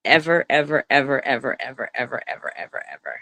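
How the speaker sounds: repeated evers trail off into a whisper; fading to a whisper. Real, not acted. Insisting to Melissa she never did it, fading to a whisper.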